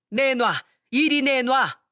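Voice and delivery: 높고 느리게, 꽥 내놓으라며; 부적 뺏으려 다그치는 시어머니; 내놓으라는 호통. Acted. 시모가 부적을 뺏으려 함. (부적을 뺏으려는 시어머니의 높고 느린 호통)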